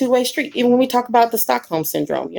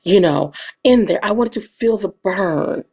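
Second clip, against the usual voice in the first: dramatic thespian reading; 4 semitones lower than usual. Acted. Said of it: "That was my thespian".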